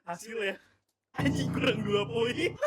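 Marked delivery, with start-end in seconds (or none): 1.1-2.5 slow, loud shout of disbelief; frustrated shout. Real, not acted. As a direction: yell it out in real frustration. Sees result, two points short.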